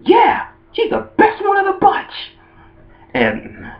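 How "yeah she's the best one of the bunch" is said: very high, clueless kid imitation; Ash. Clueless boy agreeing with the matchmaker, high mock enthusiasm. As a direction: cheer obliviously in a squeaky put-on voice. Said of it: "being clueless, he's like".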